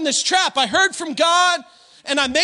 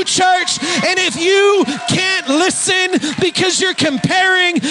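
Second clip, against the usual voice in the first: preaching at full force; 3 semitones higher than usual. Real, not acted. Preacher pushing the church toward amen.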